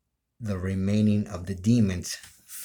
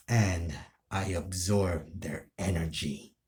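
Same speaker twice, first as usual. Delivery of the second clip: a hint of a brooding villain monologue; lightly voiced villain boasting his power; villain speech. Villain revealing himself to Tanjiro, mild menace. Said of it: "Let's say I said this".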